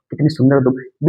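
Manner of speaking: कितनी lifted in wonder, falling to तुम; admiring exclamation. Shown as a demonstration. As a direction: say कितनी सुंदर हो तुम as if struck by beauty. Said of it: "बीच में pause आ रहा है".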